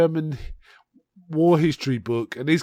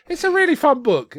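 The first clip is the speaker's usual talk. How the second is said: "really" lifted high and pushed louder; emphatic praise; 12 semitones higher, 5 dB louder than usual. Real, not acted. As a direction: lean hard on "really" with enthusiasm. Repeats praise, first take emphatic.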